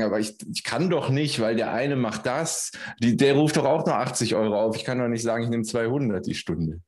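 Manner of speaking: imitated client objection. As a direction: lightly mimic a client making excuses. Voicing a hesitant client's objection.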